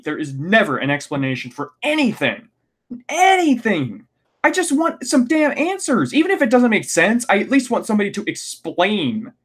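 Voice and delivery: venting in real frustration, pitch climbing; worked-up rant. Real, not acted. Fan ranting about the show to viewers, high exasperated voice. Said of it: "I'm getting worked up".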